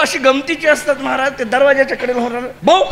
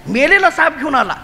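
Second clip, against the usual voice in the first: "मेलेला साप" said higher with a laugh; laughing repeat; 5 semitones higher than usual. Shown as a demonstration. (हसत, उंच सुरात "मेलेला साप घेऊन आला")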